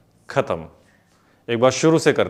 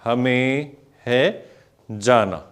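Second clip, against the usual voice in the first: slow lyric recital; much slower than usual. Shown as a demonstration. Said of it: "नए बोल हैं".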